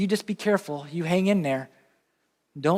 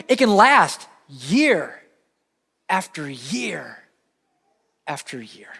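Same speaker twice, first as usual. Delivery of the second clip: slow dying fall into a hush; slow and fading; slower than usual. Acted. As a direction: let each year drag and fade away. Preacher drawing out the darkness.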